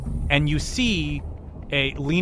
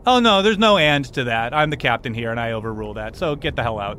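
authoritative captain; 3 dB louder than usual. Acted. Captain refusing therapy with his brother, authoritative. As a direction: overrule them as the captain.

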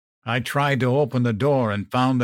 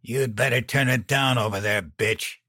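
snarled; 2 semitones higher than usual. Acted. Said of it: "Dan snarled".

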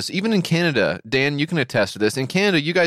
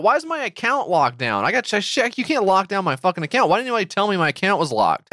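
higher, frantic retold rant at the bank; freaking out; 5 semitones higher than usual. Caller to bank clerk, higher, mock-frantic complaint. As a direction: replay the panic of a locked account. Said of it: "call somebody freaking out".

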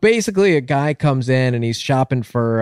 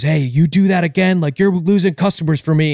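raised-pitch telling-off; scolding; 6 semitones higher than usual. Acted. Pet store owner in parrot's face, mild scolding. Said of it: "he gets in the parrot's face".

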